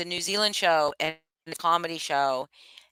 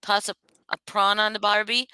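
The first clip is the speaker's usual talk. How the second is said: put-on Australian accent; 3 semitones higher than usual. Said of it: "I cannot fucking do an accent".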